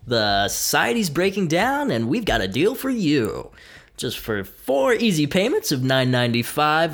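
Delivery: lightly voiced infomercial pitchman; home shopping host. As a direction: sell it like a TV deal. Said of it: "Sell me on planet Earth".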